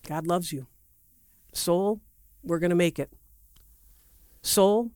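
gentle coaxing of your own soul; talking to your soul. Shown as a demonstration. Preacher demonstrating how to talk to your soul, gently. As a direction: soothe your soul like a child. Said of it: "how do you talk to your soul".

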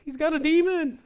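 high, startled prayer blurting out; alarmed cry to God. Retold or imitated. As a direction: gasp it up to the Lord in alarm. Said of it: "I'm like".

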